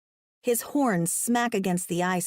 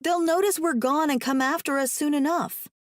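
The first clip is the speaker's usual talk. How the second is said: higher-pitched hopeful reassurance; encouraging; 7 semitones higher than usual. A narrator's reading. Woman reassuring trapped man about rescue, encouraging. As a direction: keep his hope up. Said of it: "I tell him encouragingly".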